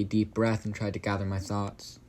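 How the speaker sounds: ordinary delivery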